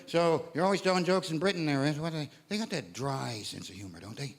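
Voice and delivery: softly mimicking a clueless American; hushed, earnest question about British humor; quiet mock American questioner. To the crowd, imitating Americans who ask about Britain, quietly earnest. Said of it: "The questions I get asked".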